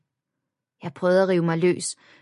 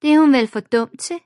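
laughing taunt; 8 semitones higher, 8 dB louder than usual. A narrator's reading. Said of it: "grinede Emilie".

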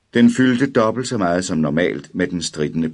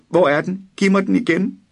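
very high, loud shriek; piercing scream; 14 semitones higher, 4 dB louder than usual. A narrator's reading. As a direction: scream it shrill. Boy screams for cat. (drengen skriger højt og skingert)

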